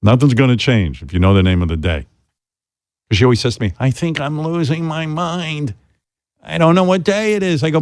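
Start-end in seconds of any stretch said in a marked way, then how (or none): 3.8-7.6 confused mother. Retold or imitated. Son quoting his confused mother.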